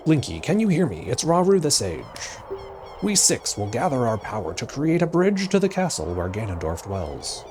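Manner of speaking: lightly booming announcer read. Acted. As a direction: read it like a TV announcer, a bit high. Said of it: "like a T V announcer voice".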